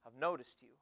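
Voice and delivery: low, soft and leaning in close; creepy hushed pickup line. Retold or imitated. Leaning in to a girl at recess, a hushed creepy line. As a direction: breathe it like a creepy secret admirer. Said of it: "And I leaned into her".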